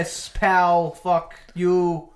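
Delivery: loud mock Brooklyn wiseguy; put-on Brooklyn Italian tough guy; Brooklyn accent. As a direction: ham up a Brooklyn street insult. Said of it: "Brooklyn accent".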